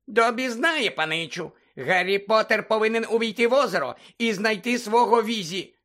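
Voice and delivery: Dobby the house-elf squeaking at Harry; squeaky house-elf. Acted. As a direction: squeak it like an anxious little elf.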